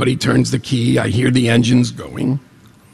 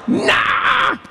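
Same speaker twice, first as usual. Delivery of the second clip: dismissive nah. Retold or imitated. Shrugging off the speed warning.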